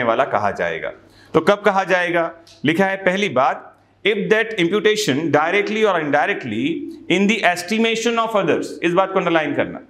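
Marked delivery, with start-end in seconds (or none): 4.1-8.7 slow, measured legal reading; slow statute reading. Acted. Teacher reading the statute to students slowly. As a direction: read the law out word by word.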